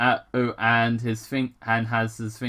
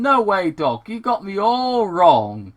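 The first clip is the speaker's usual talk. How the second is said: a touch higher, mild protest; defensive patient; 7 semitones higher, 4 dB louder than usual. Acted. Sonic as patient protesting to the doctor, mild. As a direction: brush it off nervously. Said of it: "played the role of patient".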